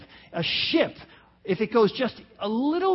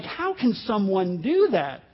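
slow, incredulous question; acted disbelief; slower than usual. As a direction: play a stunned listener, drawing the words out. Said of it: "and you're like".

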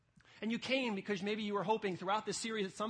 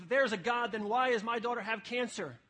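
raised, louder retold challenge; coming after him; 3 semitones higher, 5 dB louder than usual. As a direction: imitate an upset caller on the attack. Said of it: "she's coming after Ravi Zacharias".

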